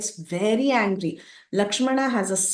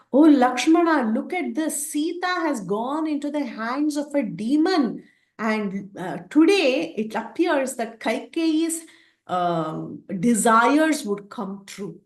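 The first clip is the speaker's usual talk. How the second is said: higher, grieving prince's voice, lightly voiced; a hint of a grieving hero calling his brother; Rama lamenting; 5 semitones higher than usual. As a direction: cry out to the brother in pained dismay. Rama lamenting Sita's capture.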